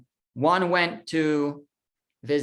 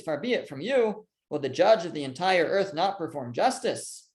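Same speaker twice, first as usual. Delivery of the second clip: scripture reading; 3 semitones higher than usual. Acted. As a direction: read the text aloud to the class. Reads Abraham's plea from text.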